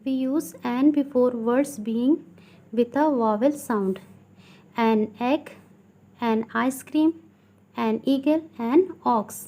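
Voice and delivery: slow, deliberate classroom reading; teacher slowly dictating from a textbook; textbook read-aloud. Acted. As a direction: read it out word by word for pupils. Reads textbook rule aloud.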